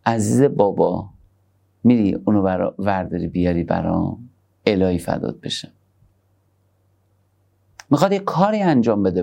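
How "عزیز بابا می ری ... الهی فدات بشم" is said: put-on lower, gentle coaxing of a loved child; tender father. Preacher voices a loving father asking his child a favour, lower and tender.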